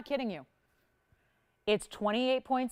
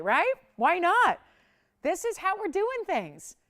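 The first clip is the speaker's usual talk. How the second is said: higher and louder, playful and pleased; gleeful, higher and louder; excited; 8 semitones higher, 6 dB louder, slower than usual. Real, not acted. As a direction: toss it off like a dare. Host gleeful about price cuts.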